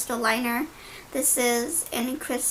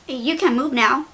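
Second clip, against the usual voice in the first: imitating a curt order, louder; mildly snotty retold command, pushed louder; mock rude attitude; 6 dB louder than usual. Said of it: "with a stank-ass attitude".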